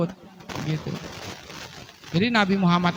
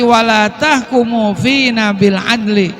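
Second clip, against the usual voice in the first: accusing complaint; 2 semitones higher, 5 dB louder, slower than usual. Retold or imitated. Man accuses Umar in Arabic.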